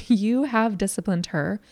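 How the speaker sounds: "have" stressed as if in capitals. Shown as a demonstration. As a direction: lean on "have" in the repeat. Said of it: "capital have".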